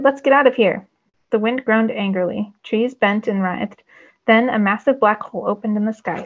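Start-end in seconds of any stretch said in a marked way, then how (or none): 0.0-0.9 higher, louder urgent call; hollered. A narrator's reading. Zane urging the group to flee, loud holler. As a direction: yell to get everyone moving. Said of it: "I hollered".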